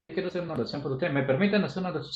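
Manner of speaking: rushed, nervous and fast; nervous trembling. Retold or imitated. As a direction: hurry the words out as if shaking. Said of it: "Mira, temblando". (con prisa y nervios, temblando)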